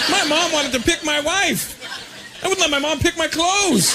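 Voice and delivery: high-pitched comic outrage; mock indignation. Son appalled that mom would pick his wife, mock indignation. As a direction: protest in high, hammed-up disbelief. Acts out disbelief at mom's plan.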